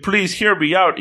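lightly acted begging. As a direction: retell it as an imploring appeal. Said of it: "He's begging her pretty much".

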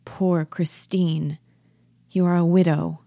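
gently. Acted. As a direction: console her gently, lingering on the opening words. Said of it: "Nora, gently".

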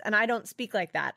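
normal talking voice

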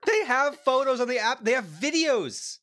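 can't believe they printed it; laughing disbelief. Real, not acted.

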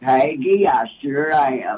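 a fond, lightly done radio-man impression; Vols announcer voice. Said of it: "And he said in that voice".

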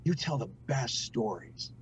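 soft, slow finish, moved by the memory; choked up. Retold or imitated. Dad retelling his little daughter's bedtime compliment, choked up. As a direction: tenderly retell it, nearly choking up. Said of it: "I'm gonna choke up saying this".

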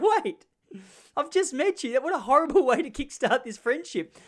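very high, affronted protest; loud squeaky outrage, played for laughs; mock indignation. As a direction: object in comic disbelief, half laughing. Acting his offended reply to student.

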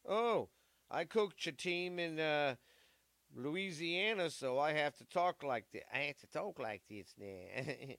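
mock Louisiana accent. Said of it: "Louisiana accent".

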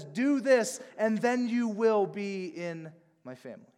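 a hint of a bossy commander; mock dictatorial commander. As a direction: order it like a boss. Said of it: "dictatorial commander that says".

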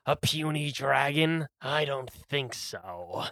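lightly voiced golem, slowing down; a touch of monster scorn, drawn out at the end; scornful golem. Golem dismissing the dragon, mildly scornful. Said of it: "the golem looks and goes".

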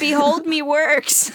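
slow, high pirate "Behold". Retold or imitated. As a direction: drag it out like a pirate. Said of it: "They both sound like a pirate".

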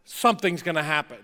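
loud stern warning, slowing on settle down; shouted dad warning; dad yelling down the stairs. Retold or imitated. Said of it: "like that voice".

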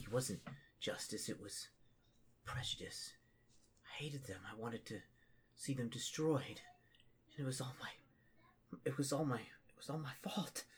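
soft, halting self-blame; tearful, broken acted remorse; weeping confession. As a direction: drag it out in a near whisper.

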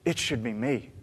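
muttering a bitter thought to himself; inner grumble. Retold or imitated. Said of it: "for people who I think".

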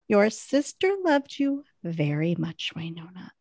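lightly voiced sad, distant goodbye; retold solemn farewell. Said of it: "And the way she's like".

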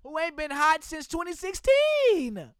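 hammed-up player protesting the trade; mock complaining player. Deshaun voiced complaining to the Texans, mock upset. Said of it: "that nigga like".

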